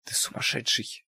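hushed, breathless whisper; quiet. A narrator's reading. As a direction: say it under your breath. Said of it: "тихо произнесла она".

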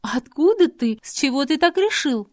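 rattled and defensive; agitated. A narrator's reading. Adelaide answering Robert, alarmed. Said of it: "взволнованно ответила Аделаида".

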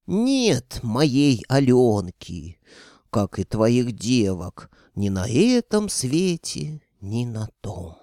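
slow, heavy creaky pronouncement; grim ghost voice. Acted. Ghost wizard reporting the girls vanished, slow grim creak. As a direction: intone the bad news like an old spirit.

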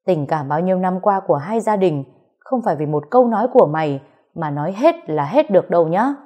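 fast, stern scolding of his son; a proud father turned harsh; father slaps son and scolds him sternly; stern angry father. Acted. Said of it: "nghiêm giọng nói".

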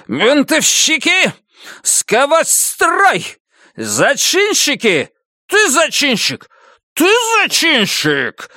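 high, slow screaming officer; shrieking furious major. A narrator's reading. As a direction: shriek the accusations down the line. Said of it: "он визгливо кричал".

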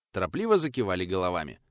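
ordinary delivery

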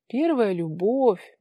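slow, self-important comment; lightly voiced pompous onlooker; pompous low man. A narrator's reading. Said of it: "важно прокомментировал ... низкий мужской голос". (важный мужской голос, медленно)

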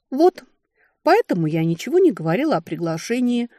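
pointed, moralizing interjection; didactic. A narrator's reading. Sister explains her silence to the family, didactic. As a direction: make the lesson plain. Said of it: "назидательно вставила я".

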